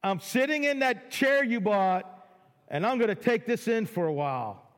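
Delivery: mock-urgent, awestruck; overwhelmed request. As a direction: demand a stop to take it all in. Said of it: "at this point they say".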